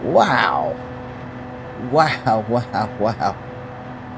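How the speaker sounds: ordinary talk, nothing marked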